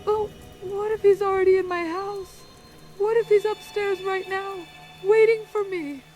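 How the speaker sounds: rising fear as you imagine him inside; frightened. Acted. Hiding caller tells radio host he may be upstairs, frightened.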